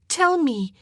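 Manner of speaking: loud, high urgent plea; insistent high cry to a distraught sister; urgent demand. A narrator's reading. Anne shakes her distraught sister.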